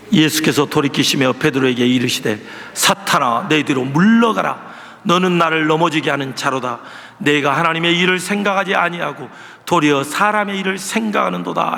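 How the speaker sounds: low, solemn Bible reading; scripture reading. Acted. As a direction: read the verse gravely, pitched low. Reads scripture passage.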